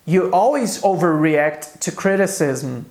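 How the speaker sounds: slow, clear English example read for students; slow model sentence. Shown as a demonstration. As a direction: say each word slowly for the class. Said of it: "Um exemplo é". (frase de exemplo lenta e clara)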